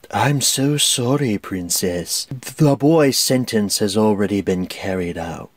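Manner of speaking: low, slick villain purr; a hint of Jafar's oily menace. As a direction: drip fake sympathy like a slimy villain. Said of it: "the most slimy voice".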